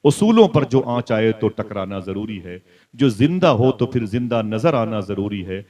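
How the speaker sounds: measured couplets, slowing towards the end; declaimed Urdu verse, softening at the close; verse recitation. Acted. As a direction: recite the poem with weight, drawing out the last line. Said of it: "Wasim Barelvi ने एक हदीस शरीफ की तर्जुमानी की थी".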